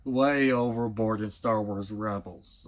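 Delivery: lightly mocking overblown cartoon voice; overdone delivery demo. Shown as a demonstration. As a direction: exaggerate it like the show's actors. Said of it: "you're just constantly talking like this".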